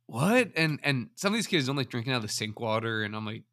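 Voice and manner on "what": sharp high rising what, mock disbelief; incredulous what. Retelling the student story, a high incredulous what. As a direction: toss it up high like you can't believe it.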